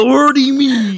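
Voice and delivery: put-on Southern accent. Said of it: "cross between Southern and wrestler voices".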